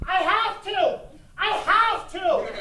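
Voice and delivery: high-pitched, helpless whine; pleading protest. Acted. Judge defends himself to the unhappy crowd, pleading high. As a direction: squeak it out in self-defence.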